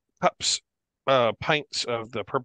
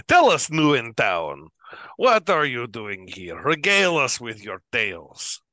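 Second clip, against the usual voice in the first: boisterous drinker; 5 dB louder than usual. Acted.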